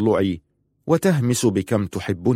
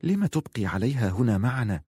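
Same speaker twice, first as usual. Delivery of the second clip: softer whispered question; 7 dB quieter than usual. Acted. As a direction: whisper it so she cannot hear. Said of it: "همست ليلى".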